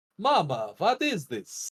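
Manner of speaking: put-on Russian accent, character voice. Voicing a game line as a joke: Boris from Metal Gear voice. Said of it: "My, my Boris Metal Gear".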